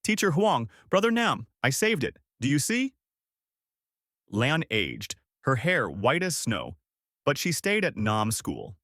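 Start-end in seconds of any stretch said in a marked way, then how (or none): 0.0-2.9 higher-pitched, understated scream; restrained scream. A narrator's reading. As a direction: cry out high with little added volume.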